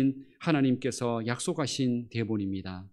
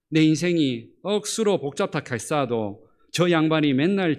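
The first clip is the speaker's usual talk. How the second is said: broad Gyeongsang accent, growing louder toward the end; Gyeongsang dialect; 4 dB louder than usual. Shown as a demonstration. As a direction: read the psalm like a hearty Gyeongsang local. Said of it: "경상도 버전으로 제가 말씀을 한번".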